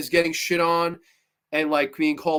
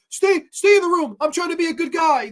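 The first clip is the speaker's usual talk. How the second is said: mock whiny guy; 10 semitones higher, 5 dB louder than usual.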